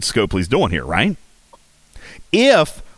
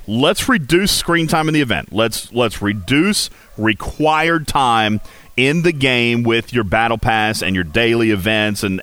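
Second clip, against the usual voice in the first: ordinary talk, nothing marked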